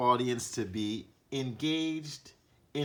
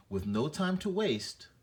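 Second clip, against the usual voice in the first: urgent reading; 4 semitones higher than usual. Shown as a demonstration.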